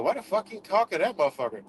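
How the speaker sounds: fast, lightly voiced scolding quote; mock indignant quote. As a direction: rattle off their outrage in a mild mocking voice. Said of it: "You be like".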